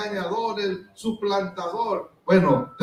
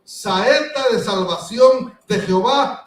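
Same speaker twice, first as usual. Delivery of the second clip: mild retold prophetic cry; 4 semitones higher, 5 dB louder, slower than usual. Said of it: "gritó Eliseo".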